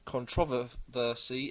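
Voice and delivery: "controversy" spelled out syllable by syllable, slowly; slow down deliberately on "controversy"; careful slow word. Shown as a demonstration. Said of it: "I can't even say the word".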